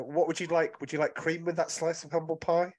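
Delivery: mock polite waiter offering humble pie; teasing waiter voice. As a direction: serve it up sweetly, gloating. Gloating at friend who was wrong.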